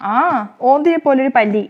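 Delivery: loud, upset complaint; loud frightened outcry. Acted. Wife cries out about the lizard, loud and upset.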